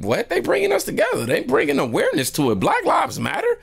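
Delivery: high-pitched indignant protest; heated retold rebuttal, way up high; enraged. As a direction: act out outraged disbelief, voice leaping up. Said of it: "but I was raged".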